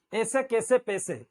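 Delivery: ऐसे कैसे पैसे as "ese kese pese"; no glide in ऐसे, कैसे or पैसे; mispronounced single vowels. Shown as a demonstration. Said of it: "ये गलत है".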